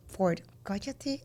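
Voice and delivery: hushed, slow and menacing; a quiet, drawn-out threat to the child; slow scary whisper. Retold or imitated. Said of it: "very scary, slow whisper".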